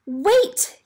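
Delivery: high, loud call of "Wait"; yelled. Acted. Apple grower shouting after the departing train, loud. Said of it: "yelled Cinnamon Cobbler".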